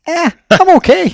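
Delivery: high, breezy "eh, I'm okay" in a mock-lazy voice; lazy contented shrug. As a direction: play the satisfied, unmotivated self. Imagined content self, lazy quote.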